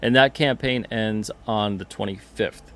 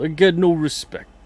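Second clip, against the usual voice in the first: higher, louder exasperated comic whine; Rodney Dangerfield; 7 semitones higher, 6 dB louder than usual. Retold or imitated. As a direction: throw it out like an aggrieved comic. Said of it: "Pete is the Rodney Dangerfield of the comic world".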